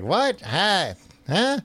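high, clipped startled questions. Retold or imitated. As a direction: caught off guard, jumping up in pitch. Easy startled by the offer.

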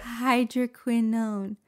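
slow, careful hydroquinone; careful pronunciation. Shown as a demonstration. Reader told to just say it, slow careful hydroquinone. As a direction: sound out hydroquinone, long final own. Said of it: "Just say it".

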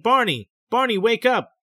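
trying to rouse him, urgent; urgent calling. A narrator's reading. Betty calling her sleepwalking husband Barney, urgent call.

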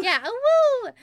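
high loud wolf howl. Pretend. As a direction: howl it out like a puppy. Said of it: "you wanna give a big fat awoo".

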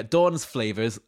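slow Yorkshire accent on flavours. Shown as a demonstration. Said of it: "I said flavours in a Yorkshire accent there".

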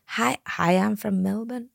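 put-on tentative stab at an Australian accent; hesitant, amateur Australian accent; Australian accent attempt. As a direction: have a go at sounding Australian. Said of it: "Do an Australian accent".

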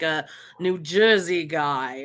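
slow, lightly put-on New Jersey accent; a half-hearted New Jersey accent, drawn out; bad New Jersey accent. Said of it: "that was a bad accent".

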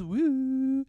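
high whooping cheer like a goal celebration; imitating a footballer's wacky goal celebration; mock celebration. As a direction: throw out a silly celebratory whoop.

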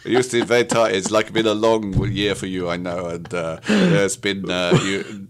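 slow sympathy. Acted. Slow sympathetic improv line.

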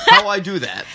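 high laughing caveman; loud, high dim caveman voice. Retold or imitated.

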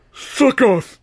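high, loud snarling insult in a strange voice; a loud venomous snarl; spat curse. Acted. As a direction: spit it at him through pain. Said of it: "he hissed".

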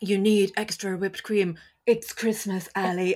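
flat earnest angel voice; deadpan robot voice; serious robot voice. Retold or imitated. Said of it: "that's his whole beat".

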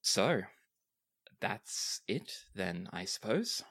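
captain voice. Acted. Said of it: "greets you and says".

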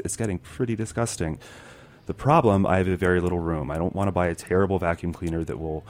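quiet reading with creaky vocal fry. Pretend. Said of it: "Vocal fry?".

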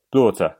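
"Blue Water" squashed into "Blaw-tuh", T sounded; language-tape pronunciation. Shown as a demonstration. Asked to say it, stiff run-together "Blue Water". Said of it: "you sound like a, um, uh, Duolingo tape".

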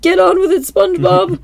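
high, loud, hammed-up urging; impatient Pearl. Pearl urging SpongeBob to fire her, high loud.

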